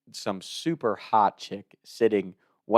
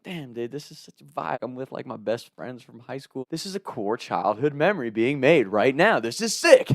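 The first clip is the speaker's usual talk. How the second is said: blissful excitement; 3 semitones higher than usual. Retold or imitated. Acting out his blissful younger self.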